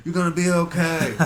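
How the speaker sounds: loud, high mock consoling; hammed-up reassurance. Drunk bystander pats the patient's leg, hammed-up reassurance. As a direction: imitate a drunk bystander's overblown comforting.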